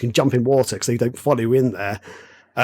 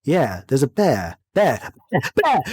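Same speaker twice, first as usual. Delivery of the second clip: lazy half-lying-down; slower than usual. Retold or imitated. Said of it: "kind of half lying down".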